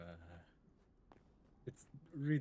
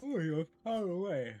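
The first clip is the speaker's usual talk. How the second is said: put-on German accent; 4 semitones higher, 6 dB louder than usual. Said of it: "pull out my extreme German accent again".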